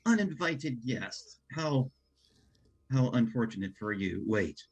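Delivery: grandstanding villain, drawn out; evil villain monologue. Acted. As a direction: gloat like a theatrical villain. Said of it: "do an evil villain monologue grandstanding".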